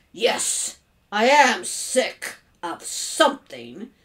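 slow, pointed, broken-up reply; seething sarcasm. Acted. Father answering his clueless son, pointedly exasperated. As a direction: spell it out with strained patience.

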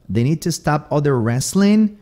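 "wrestling" ending in N, not NG; G dropped. Shown as a demonstration. Teacher repeating the example, "wrestling" without its G. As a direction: drop the G on "wrestling", saying "wrestlin". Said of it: "tirando o G".

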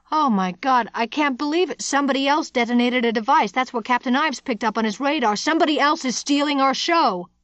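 high-pitched, outraged disbelief; agitated realization. Acted. Dooley realizing someone else detonated a device, agitated.

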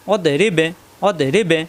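অদে রিবে with the ব bounced thick; heavy end qalqala. Shown as a demonstration. Teacher to viewers, heavy qalqala at the verse end. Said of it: "মোটা হবে".

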